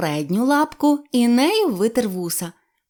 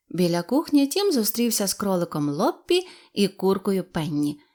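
plain reading voice

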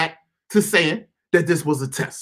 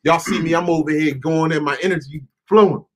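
lower-pitched, settling voice; calming down; 6 semitones lower than usual. Real, not acted. Speaker reining himself in before listeners, calming down. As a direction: come down from the rant, ease off. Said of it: "let me calm down a little bit".

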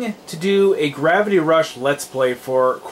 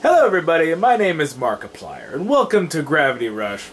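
Markiplier. Acted. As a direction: have a go at a big host's channel welcome. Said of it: "let me try Markiplier".

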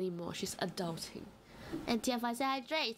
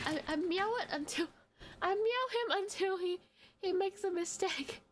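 cat voice; 8 semitones higher than usual. Acted. Reading cat's lines in game.

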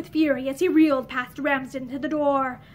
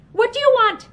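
sharper, louder demand; demanding it a second time, raised; insistent repeat; 8 semitones higher, 6 dB louder than usual. A narrator's reading. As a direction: press the question harder. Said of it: "he asked again".

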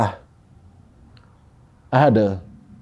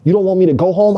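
retold yell; 3 semitones higher than usual. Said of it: "I thought I was whispering, but I was yelling".

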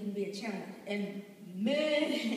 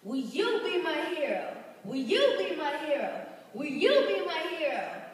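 preaching; 2 semitones higher, 3 dB louder than usual. Acted. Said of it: "let's have church in here".

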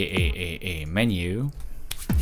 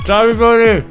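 words muffled by marshmallows; mouth full; 8 semitones higher, 7 dB louder than usual. Real, not acted. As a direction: mumble through a stuffed mouth. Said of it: "every time I die".

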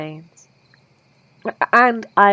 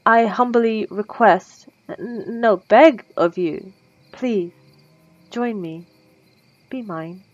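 plead, drifting to a hush; 2 semitones higher, slower than usual. Acted. Begging the donor to join her.

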